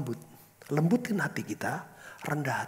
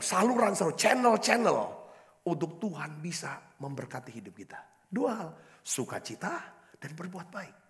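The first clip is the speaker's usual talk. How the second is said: ordinary talk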